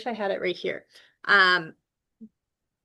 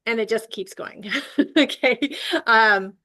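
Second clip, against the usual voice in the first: laughing; 4 dB louder than usual. Real, not acted. Laughing through a line.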